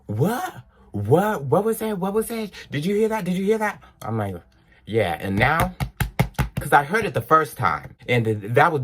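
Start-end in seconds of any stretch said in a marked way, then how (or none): 0.1-3.8 high, startled repeated questions; surprised bestie. Retold or imitated. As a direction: sound like the friend caught off guard. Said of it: "And she's like".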